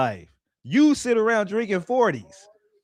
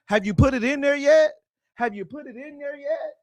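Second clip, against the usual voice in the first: mock woman asking; 8 semitones higher than usual. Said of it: "she asks you".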